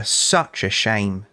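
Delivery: slow, drawn-out fake pity; mock sorrow. Real, not acted. To the viewers about the bully's smashed glass, slow mock sorrow. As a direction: pretend to mourn the glass, savouring it.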